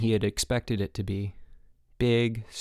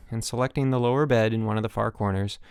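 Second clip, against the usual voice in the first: ordinary delivery, nothing marked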